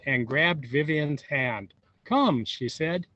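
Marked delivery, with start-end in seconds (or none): 2.0-2.4 stern command. A narrator's reading. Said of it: "Grandma was really mad".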